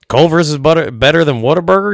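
loud, high-pitched incredulous question; mock disbelief. Retelling his disbelieving reply to buddy.

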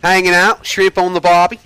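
high, loud hammed-up Aussie accent; over-the-top mock Aussie voice; bad Australian accent. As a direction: ham up a terrible Australian accent. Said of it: "that horrible freaking accent".

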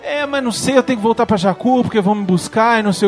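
quick high retelling of both voices; light mock dialogue. Retelling Rey and Han's job offer, quick and light. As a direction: toss the lines off lightly. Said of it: "ela fala".

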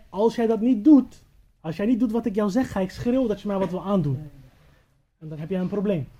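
loud, emphatic retold ultimatum; retold threat. Storyteller voices the lady threatening the young man, forceful.

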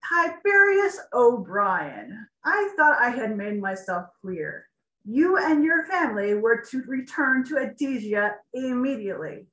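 loud, firm, commanding king; king rebukes his chancellor, firm and loud; assertive, no-nonsense. Acted. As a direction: lay down the law, no room to argue. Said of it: "an assertive, no-nonsense tone".

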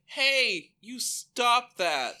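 loud, high, slow hey; hammed-up yell across the lot; mock shout. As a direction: call it out like a scolding. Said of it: "it's just like".

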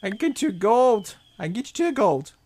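high, loud hag voice; insistent high-pitched hag seller; hard-bargaining hag. Acted. Hag repeats her offer.

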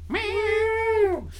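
high playful meow; cat meow. Pretend. Mock cat noise.

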